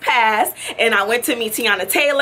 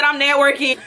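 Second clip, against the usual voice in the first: snooty, self-important reply with attitude; 2 semitones higher than usual. Retold or imitated. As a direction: brush them off with a whole attitude. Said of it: "With a whole attitude".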